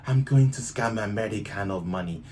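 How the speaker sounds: bad mock Russian accent; badly faked Russian accent, loud and jokey. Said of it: "Terrible Russian accent, I tried".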